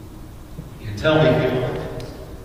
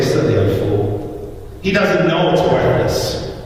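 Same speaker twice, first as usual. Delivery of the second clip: sneering bidder; slower than usual. Retold or imitated. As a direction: mutter the insult with contempt.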